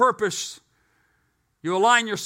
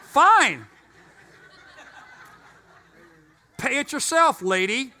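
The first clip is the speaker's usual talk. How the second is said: louder, higher, fed-up retort with a laugh; half-laughing fake outburst; mock angry snap; 5 semitones higher, 7 dB louder, slower than usual. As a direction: huff it out like you've had it. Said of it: "I'm getting, like, mad".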